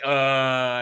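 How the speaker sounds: drawn-out mock groan; imitated groan. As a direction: groan like an unconvinced congregation. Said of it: "you hear the people groaning".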